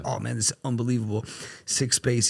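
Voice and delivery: imitating excited amazement; hyped admiration. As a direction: play a buddy wowed by the place. Retold wired friend admiring space.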